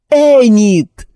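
loud anguished cry of her name; shout. A narrator's reading. Husband shouts his wife's name in fear. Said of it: "закричал Рейвенсбрук".

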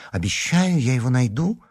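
high, anxious pleading; frightened promise. A narrator's reading. Larisa promises Alyona to find the amulet, frightened. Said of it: "испуганно воскликнула Лариса".

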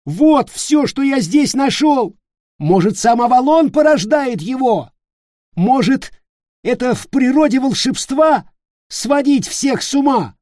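high, loud accusing questions; agitated yelling. Acted. Nick shouting accusations at Peter, high and loud. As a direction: rant at him.

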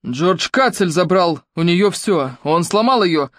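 mock shout, rising at the end; mild shout back. Claude shouts back at Ruby about his mother, mildly. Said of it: "закричал в ответ Клод".

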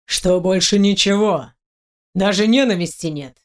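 icy amused disdain; cold smirk. Acted. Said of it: "Келлис холодно усмехается".

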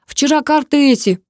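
high, angry outburst; yelling in anger. A narrator's reading. Brother yells in his sister's face, high angry outburst. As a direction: yell it in their face. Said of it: "проорал он мне в лицо".

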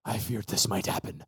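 put-on low, soft, foreboding old sheepdog; gasp, then dread it quietly; shuddering old dog. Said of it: "shudders and he says".

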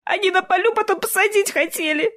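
put-on high girl's voice, tearful; girl sobbing out words. Frightened girl telling the stranger through tears, high-pitched. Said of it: "и разрыдалась".

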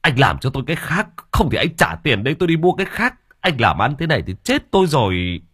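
father still annoyed, demanding a replacement coffin. Acted. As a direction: grumble your demands with rising irritation. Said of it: "vẫn còn bực".

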